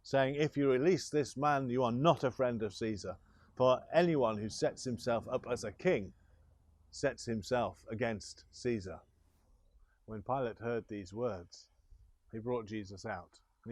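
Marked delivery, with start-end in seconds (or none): 0.4-9.0 crowd crying out. Acted. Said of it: "they cried out".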